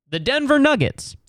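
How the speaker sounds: "The Denver Nuggets" pitched high in disbelief; mock disbelief, high on "Nuggets"; incredulous repeat. Real, not acted. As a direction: echo "The Denver Nuggets" as if it's absurd. Repeats team name in disbelief.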